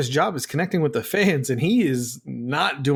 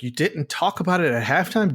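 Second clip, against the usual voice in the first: disbelieving, pitched-up question; incredulous; 3 semitones higher than usual. Retold or imitated. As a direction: throw his words back in disbelief. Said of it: "It's like".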